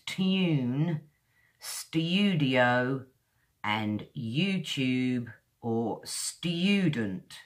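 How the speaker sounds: "tune", "studio", "YouTube", "student" slowly, one by one, long oo; modern British pronunciation. Shown as a demonstration. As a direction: draw out the vowel in "tune" and "student". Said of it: "the way I like to say it in modern British English".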